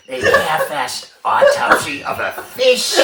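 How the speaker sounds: high, wheezing laugh through the line; laughing mock quote. Friends quoting Jaws, wheezing laughing high squeal. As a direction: squeeze the line out while cracking up.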